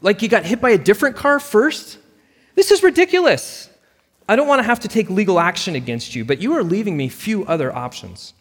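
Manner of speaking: high, loud, exasperated tirade; furious outburst. Acted. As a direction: let the anger boil over at the agent. Sarah angrily threatens legal action.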